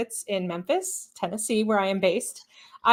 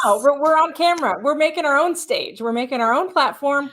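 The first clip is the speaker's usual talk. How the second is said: rising, higher and louder with passion; excited; 4 semitones higher, 4 dB louder than usual. Real, not acted. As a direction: sell the vision with fire.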